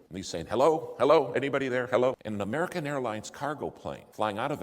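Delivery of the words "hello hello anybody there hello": calling out. Retold or imitated. Calling blindly on the radio.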